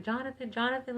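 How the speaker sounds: high, lightly acted distressed call; retold tearful call. Woman phoning her brother after the scare, retold tearful call. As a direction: call the name high, imitating tears. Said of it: "I'm just crying, like, hysterically".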